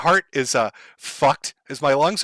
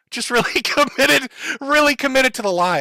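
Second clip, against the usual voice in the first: sarcastic laugh; 8 semitones higher, 4 dB louder than usual. Real, not acted. Sarcastic jab at critic's claim.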